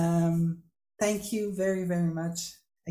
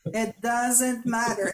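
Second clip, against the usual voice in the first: slow, calm; 3 semitones higher, slower than usual. Retold or imitated. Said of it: "And then I go".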